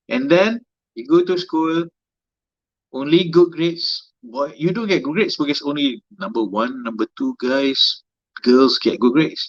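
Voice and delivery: put-on a light auntie scolding a boy. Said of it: "That's my auntie voice".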